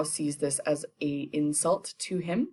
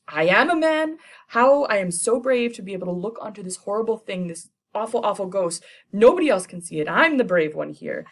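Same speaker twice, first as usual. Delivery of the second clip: higher, louder bravado; boastful shout; 4 semitones higher, 5 dB louder than usual. Retold or imitated. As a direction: puff up and proclaim it. Macbeth boasts his bravery.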